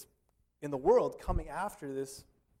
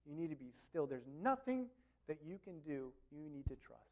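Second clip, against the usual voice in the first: softer, steady word from Moses; calm firm Moses; 10 dB quieter than usual. Retold or imitated. Moses tells the frightened people to be still, softly and firmly. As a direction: quietly settle the panicked people. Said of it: "he was like".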